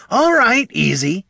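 high, loud startled backing off; alarmed. A narrator's reading. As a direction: hands up, calm them down fast. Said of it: "said Bert, paws in the air".

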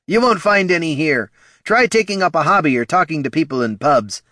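high, loud sneering voice; snooty guard. Acted. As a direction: brush them off rudely. Rude guard dismisses them.

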